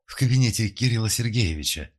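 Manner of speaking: breathless hurried answer; panting shaky eyewitness. A narrator's reading. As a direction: say it out of breath from running. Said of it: "запыхавшись, проговорила".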